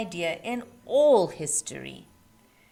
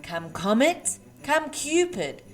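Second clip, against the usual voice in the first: louder roll call of names; calling the reindeer; 3 dB louder than usual. Acted. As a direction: call each reindeer in turn. Santa summons his reindeer by name.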